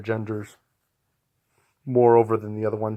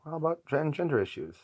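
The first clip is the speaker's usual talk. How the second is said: whisper; 5 semitones higher, 6 dB quieter than usual. Real, not acted. Whispered aside on topic.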